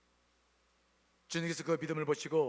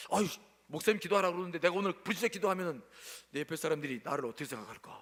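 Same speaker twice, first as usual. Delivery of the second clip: acted hesitant worry; faster than usual. Voices a self-conscious churchgoer's thoughts.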